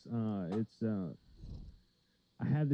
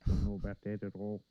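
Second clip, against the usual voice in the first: a touch of Canadian. Acted. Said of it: "Oh, is that Canadian?".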